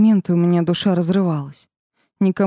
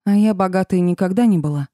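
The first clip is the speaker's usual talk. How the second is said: usual speaking voice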